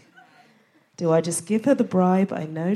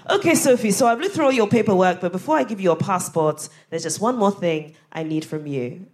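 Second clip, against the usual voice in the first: put-on Ghanaian accent. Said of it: "I'm about to do a Ghanaian accent".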